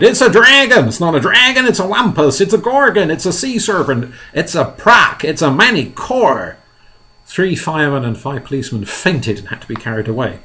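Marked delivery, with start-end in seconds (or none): 0.0-6.6 high, loud cries tumbling out; panicked shouting. Acted. Policemen and firemen naming the monster, alarmed shouts. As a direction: shout each guess over the last one. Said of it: "all started shouting at once".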